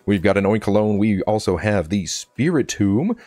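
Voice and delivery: lightly put-on radio DJ voice. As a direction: present it like an upbeat DJ. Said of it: "use my best radio voice for this next one".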